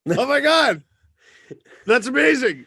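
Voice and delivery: high-pitched delighted astonishment; thrilled and stunned; real amazement. Real, not acted. Reacting to the surprise video.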